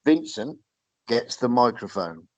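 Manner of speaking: slow, measured repeat with a pause after the name; said slowly. Shown as a demonstration. Host building up to the wrestler's promo, said slowly and deliberately. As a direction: spell it out slowly, piece by piece. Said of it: "I'm gonna say it slowly".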